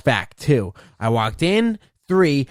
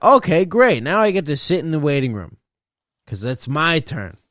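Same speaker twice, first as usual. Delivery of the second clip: sarcastic; 3 semitones higher, 4 dB louder than usual. Retold or imitated. Sarcastic reply to staff.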